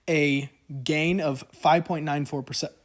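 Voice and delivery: talking with hiccups. Real, not acted. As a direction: hiccups breaking in. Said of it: "I have the hiccups tonight".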